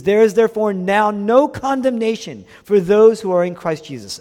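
high, loud scripture declaration; triumphant proclamation. Acted. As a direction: proclaim it boldly from the pulpit.

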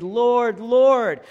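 loud, fervent cry to God; fervent prayer. Retold or imitated. Believers calling on the Lord in prayer, fervent. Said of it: "They're incredibly fervent".

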